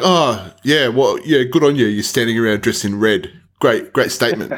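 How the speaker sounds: retold grudging, sarcastic praise; grumpy sarcasm. Museum visitor to protesters blocking the way, grumpy sarcasm. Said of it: "angry, grumpy dickhead".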